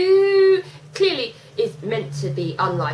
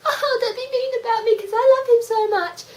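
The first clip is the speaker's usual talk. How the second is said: whiny mock-lovesick girl, pitched way up; annoying little girl; 12 semitones higher, 4 dB louder than usual. Mocking a lovesick wrestler to a co-host, annoying little girl voice. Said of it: "annoying little girl".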